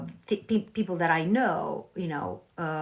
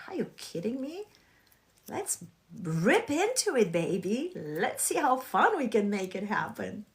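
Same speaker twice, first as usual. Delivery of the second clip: excited inner voice; 3 semitones higher than usual. Retold or imitated. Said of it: "I'm like".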